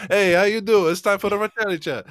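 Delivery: loud, high, quick host intro; hammed-up show greeting. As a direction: launch a chat show with mock pep. Acts out a show-opening greeting.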